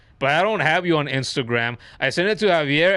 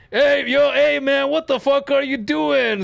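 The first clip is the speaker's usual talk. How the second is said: Steve Austin; 8 semitones higher than usual. Retold or imitated. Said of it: "and he's like".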